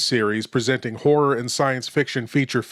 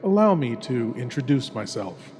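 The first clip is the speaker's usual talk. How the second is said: hushed horror host; 3 dB quieter than usual. Acted. Horror host greets listener intimately.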